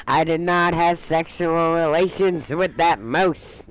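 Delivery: slowed, drawn-out denial; lightly mocking the denial with a new ending; mock Kathy denial. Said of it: "Kathy, on the other hand is".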